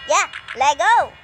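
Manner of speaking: loud, slow eager yeah; eager cheer. Acted. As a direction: cheer to head out. Eager to leave with treats.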